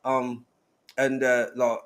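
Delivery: lightly mocked British accent; udawany brytyjski akcent. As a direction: joke along in a put-on British accent. British biscuits joke about UK friend.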